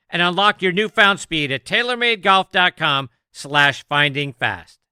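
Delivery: polished, punchy commercial read; scripted promo delivery; sponsor ad read. Acted. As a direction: sell it like a radio spot. Reads sponsor ads.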